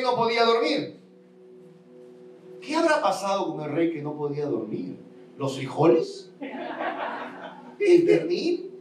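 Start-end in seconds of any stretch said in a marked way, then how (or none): 5.4-8.7 playful high jokey question; joking. Acted. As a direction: tease the crowd with a laugh. Joking guesses to congregation.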